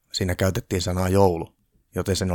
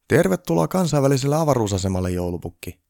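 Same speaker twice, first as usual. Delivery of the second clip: crew welcome; 7 semitones higher, 3 dB louder than usual. A narrator's reading.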